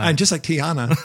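giddy retold excitement, breaking into laughter; excited, laughing. Recalling the walk through New Orleans, laughing excitement. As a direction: gush it lightly with a laugh. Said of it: "I was so excited".

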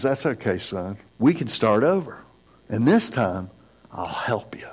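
reassuring father. Retold or imitated. Father comforting his failed son.

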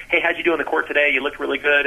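quick, chatty reporter voice; imitating a fast-talking sports reporter; fast talker. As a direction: rattle it off like a TV interviewer. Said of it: "They can, tend to talk like this".

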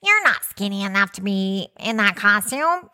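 comical cartoon character voice; playful mock critic as a cartoon. Shown as a demonstration. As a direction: put on a silly cartoon voice. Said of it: "say it in a cartoon voice".

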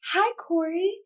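put-on high messenger voice; imitated friendly stranger. Podcaster voicing a stranger's friend-request message, high put-on voice. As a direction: read it out high, mimicking a stranger.

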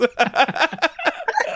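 helpless high-pitched giggling; real fit of high laughter. Real, not acted. Cracks up at own joke.

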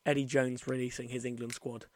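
talking with retainers in; wearing a retainer. Real, not acted. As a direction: speak around dental retainers. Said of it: "I also have my retainers in right now".

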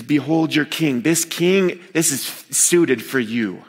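mild mocking presentation; lightly acted mockery. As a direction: hand him over with a touch of mockery. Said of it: "he's mocking them".

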